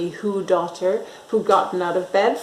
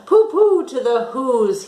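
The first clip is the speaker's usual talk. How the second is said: grinchy gloat; 3 semitones higher, 4 dB louder than usual. Acted. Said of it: "he said, grinchiously humming".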